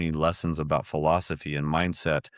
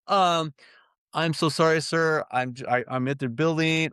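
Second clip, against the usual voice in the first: apologetic caller; 11 semitones higher than usual. Retold or imitated.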